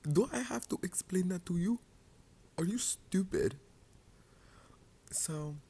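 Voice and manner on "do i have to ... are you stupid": higher, louder, scornful comeback; mock outraged retort. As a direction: throw the insult at him like a slap. Angrily quoting reply to boyfriend.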